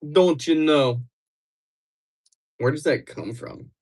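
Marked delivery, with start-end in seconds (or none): 0.1-1.0 exaggerated Upper Midwest "don't you know"; stretched Midwestern vowels; mock Wisconsin accent. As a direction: put on a playful Wisconsin accent. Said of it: "you don't have that accent".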